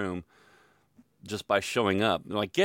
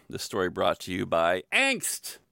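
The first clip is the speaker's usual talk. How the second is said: drawn-out sponsor credit; mock sponsor announcement; 3 semitones lower, slower than usual. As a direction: announce it like a show sponsor, stretching the last word.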